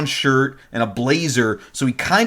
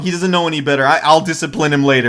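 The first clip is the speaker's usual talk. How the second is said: imitating anxious defusing; 3 dB louder than usual. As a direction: play a flustered apology to calm someone down. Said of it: "She's trying to defuse the situation".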